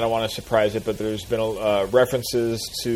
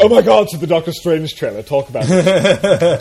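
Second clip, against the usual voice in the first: excited; 6 semitones higher, 8 dB louder than usual. Real, not acted. Spots the trailer, urges discussion.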